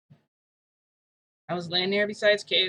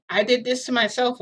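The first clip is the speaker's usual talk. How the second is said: louder, higher acted confession; insistent retort; 6 semitones higher, 7 dB louder than usual. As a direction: blurt it out, raised and insistent. Acted confession in retold argument.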